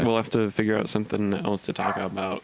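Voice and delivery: flat, even robot voice. Real, not acted. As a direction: speak like a machine. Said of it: "I started talking like a robot".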